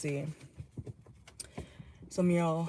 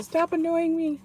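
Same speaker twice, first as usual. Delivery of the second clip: irritated brush-off; 10 semitones higher than usual. Retold or imitated. Someone tells the listener off, high irritated brush-off. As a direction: act someone fed up with you. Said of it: "Someone could be telling you".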